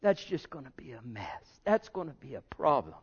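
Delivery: soft hushed whisper of God warning; gentle warning voice. Retold or imitated. God whispering a warning to his child, soft and hushed. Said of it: "You know when he's saying".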